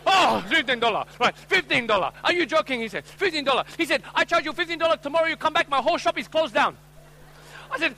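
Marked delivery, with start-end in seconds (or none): 0.0-2.8 put-on high-pitched shocked Asian-accented shopkeeper; hammed-up Asian accent, indignant. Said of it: "this time with an Asian accent". 3.0-3.7 put-on high-pitched Asian-accented disbelief; hammed-up Asian-accented shopkeeper; Asian accent, shocked. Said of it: "this time with an Asian accent". 4.1-6.8 put-on high-pitched Asian-accented shopkeeper protest; hammed-up haggling in an Asian accent. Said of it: "this time with an Asian accent".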